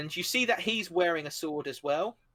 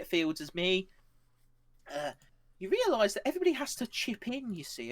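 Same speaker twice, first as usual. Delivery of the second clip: put-on chummy old-timer lecturing; 6 semitones higher than usual. GM voices Shah lecturing young man.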